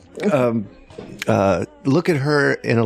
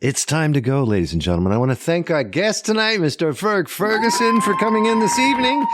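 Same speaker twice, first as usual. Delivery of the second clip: show host sign-off; 7 semitones higher than usual. Acted. Hosts the sign-off.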